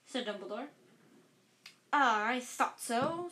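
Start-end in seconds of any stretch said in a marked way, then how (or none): 1.9-3.3 slow, louder, self-satisfied; smug Lockhart. Acted. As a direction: Lockhart pretending he knew all along. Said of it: "said Lockhart".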